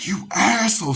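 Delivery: high, loud mock yell of mom; imitated yell. Mom yelling at her son over the puzzle, high mock yell. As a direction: shriek the insult as mom. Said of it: "She starts vocally yelling at me".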